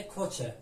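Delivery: کوچه with ch in the second syllable; ch sound. Shown as a demonstration. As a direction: say کوچه, the c-h pair as one ch. («کوچه» با صدای چ)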